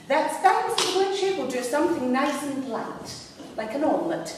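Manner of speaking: posh receptionist, opening high; put-on posh and obliging; posh phone voice. Receptionist offering the caller something light, posh. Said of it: "I decided I'd be rather posh".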